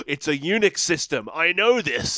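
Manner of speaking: mock gasp, then rising, excited discovery; hammed-up kid's eager realisation; excited twelve-year-old. Mocking a film's twelve-year-old at a computer, mock excited. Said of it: "this twelve-year-old's like".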